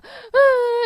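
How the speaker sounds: high, loud pretend sob; mock angry wail. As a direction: wail in hammed-up indignation. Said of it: "울면서 화가 났다". (분해서 우는 척 높고 크게)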